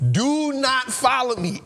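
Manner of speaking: laughing at his own warning; laughing repeat. Retold or imitated.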